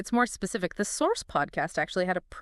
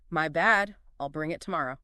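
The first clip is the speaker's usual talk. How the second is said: sheepish apology; 2 semitones lower than usual. Shown as a demonstration. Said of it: "maybe sounding a bit sheepish".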